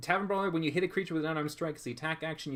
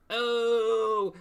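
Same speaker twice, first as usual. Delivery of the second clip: sudden realization; 8 semitones higher, 5 dB louder than usual. Retold or imitated. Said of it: "I'm like".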